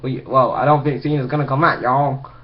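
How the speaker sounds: rough, lightly voiced commentator impression; halting stab at a weird "y'all" accent; mock the commentator, not very convincingly; JBL. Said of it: "that's my best impression of J B L".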